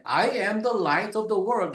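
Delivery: very slow, each "I am" weighted; stress on I am. Shown as a demonstration. Preacher reciting Jesus's "I am" sayings, slow and stressed. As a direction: intone the "I am" sayings one by one. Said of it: "이 I am을 계속 사용함으로써".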